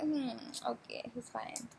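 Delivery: breathy, soft, barely-bothered okay; half-whispered, shrugging it off; unimpressed murmur. Retold or imitated. Telling her friend the brother is only fine, in a soft whisper.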